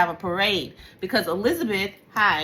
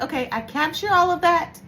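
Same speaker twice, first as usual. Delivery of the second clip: bossy self-talk; 3 semitones higher than usual. Retold or imitated. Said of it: "And I'm like".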